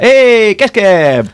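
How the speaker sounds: imitating an excited fan's high, loud call. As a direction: holler it like fans spotting someone famous. Fans calling out on recognizing him.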